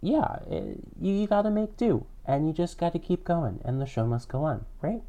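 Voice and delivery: tinny headphone mic sound; headphones used as mic. Real, not acted. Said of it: "I'm talking into my headphones".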